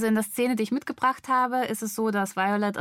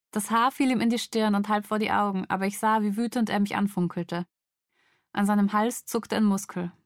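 measured, dramatic audiobook reading; story narration; faster than usual. A narrator's reading. Woman woken by intruder at night, story narration. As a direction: read a suspense scene with pauses between sentences. Reads novel scene aloud.

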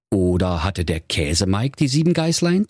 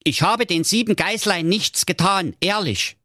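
whimpering; 12 semitones higher than usual. A narrator's reading. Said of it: "Doch der Käsemike wimmerte".

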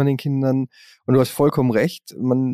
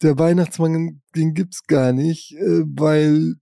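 put-on slow, slightly raised kid voice; child voice; 3 semitones higher, slower than usual. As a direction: lightly voice a small child. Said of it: "ankommen und sagen".

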